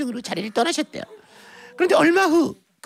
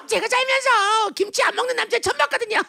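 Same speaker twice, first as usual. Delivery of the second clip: high, chirpy mock complaint; cheerful frank sister; 6 semitones higher than usual. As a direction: confide it blithely to the mother. Sister's acted blithe complaint.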